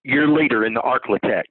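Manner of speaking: lightly hammed-up local TV announcer; mock East Texas newscaster tagline; news promo voice. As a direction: read it like a regional station ident. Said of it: "as they say on the news in East Texas".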